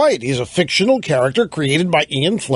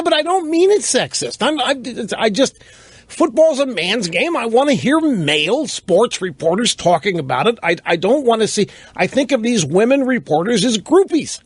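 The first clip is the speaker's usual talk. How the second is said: higher-pitched imitation of a defensive friend; protesting friend; 5 semitones higher than usual. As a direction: plead your case, voice pitched up.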